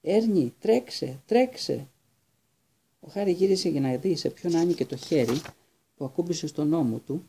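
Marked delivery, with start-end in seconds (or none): 0.0-1.9 high urgent shout to the driver; calling out urgently. Acted. Stan yelling to Ernie to drive off, high urgent shout. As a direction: yell at Ernie to run, pitch way up. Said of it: "ο Σταν άρχισε να φωνάζει".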